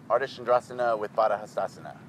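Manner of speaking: brisk Sanskrit pose names with a Spanish accent; light Spanish accent, rattled off quickly. Shown as a demonstration. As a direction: say the Sanskrit as a Spanish speaker would. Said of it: "I say it with a Spanish accent".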